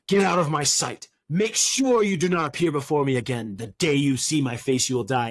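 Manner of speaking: a hint of a dramatic audiobook Pharaoh; emotional Pharaoh. Imitating an audiobook actor voicing Pharaoh, mildly dramatic. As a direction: mildly ham up the angry king. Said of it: "he'll put all this emotion".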